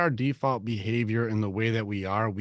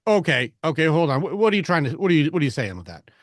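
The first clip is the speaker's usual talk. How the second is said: raised, louder, worked-up questioning; tone going up; 5 semitones higher, 6 dB louder, faster than usual. Shown as a demonstration. Coach showing Nigel questions in a changed tone, high and confrontational. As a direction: push back with escalating, rapid questions. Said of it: "that tone went up".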